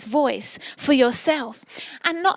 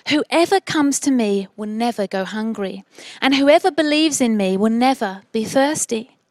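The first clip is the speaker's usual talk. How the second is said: deliberate, lower-pitched Bible reading; scripture reading; 3 semitones lower than usual. Acted. Preacher reads John six to listeners, measured scripture reading. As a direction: read the verses out solemnly, pausing between phrases.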